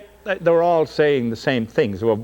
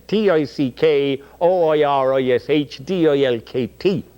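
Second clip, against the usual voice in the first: thick Oirish dialect; 3 semitones higher than usual. Shown as a demonstration. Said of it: "written in thick Irish dialect".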